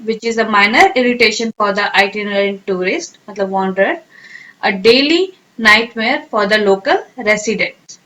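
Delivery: slow teacher dictation. Shown as a demonstration. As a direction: read it slowly for students to repeat. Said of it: "अब आप बोले".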